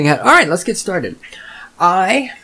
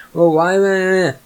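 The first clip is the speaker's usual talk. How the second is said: lightly mocking, higher-pitched client; mock client whining; 5 semitones higher than usual. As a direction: put on a slightly clueless customer. Mimics clueless client's excuse.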